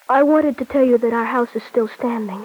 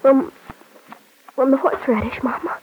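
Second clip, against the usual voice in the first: trying to hide crying, halting; crying son. Acted. Son hides his crying from his mother, halting and choked. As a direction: blame the tears on the horseradish, choked. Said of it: "you're crying".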